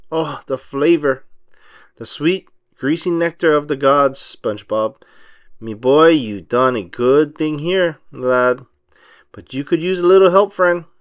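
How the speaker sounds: a hint of a gruff old sea captain, savoring the food; lightly voiced Mr Krabs. Mr Krabs praising SpongeBob's fresh patty, lightly gruff pirate voice. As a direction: gently growl it like a greedy old crab.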